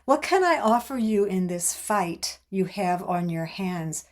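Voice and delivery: deliberate book reading with weighted key words; reading aloud. A narrator's reading. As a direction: read it out in measured, separated phrases. Reads the closing excerpt aloud.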